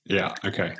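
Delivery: talking with a pen gripped in teeth; quiet, muffled with pen between teeth. Real, not acted. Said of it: "gripping it horizontally with his teeth".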